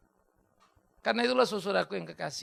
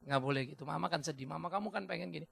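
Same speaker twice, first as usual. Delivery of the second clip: gentle admonishing; 4 dB quieter than usual. Retold or imitated. Gently admonishing a child in story.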